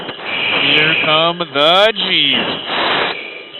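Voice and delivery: slow strained words under G load; under heavy g force. Real, not acted. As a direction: force it out while pulling G's. Second high G turn.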